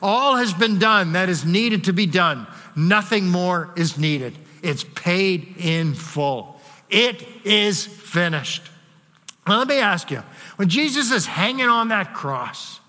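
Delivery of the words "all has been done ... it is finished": slowing down and softening at the end; slow, settled declaration. Shown as a demonstration. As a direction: let it land gently, almost reverent. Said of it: "We could say it this way".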